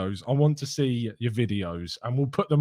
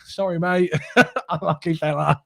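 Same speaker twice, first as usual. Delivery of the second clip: mock sympathy to rival; 3 semitones higher than usual. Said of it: "just be like".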